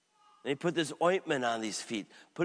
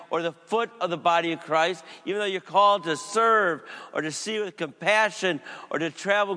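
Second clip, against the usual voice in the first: impassioned Jesus rebuke; 4 semitones higher, 5 dB louder than usual. Acted. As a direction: proclaim it like Jesus scolding John. Jesus voiced rebuking his disciple.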